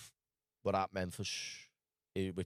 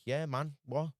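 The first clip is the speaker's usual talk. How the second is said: imitating the stranger; 5 semitones higher, slower than usual. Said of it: "And he's like".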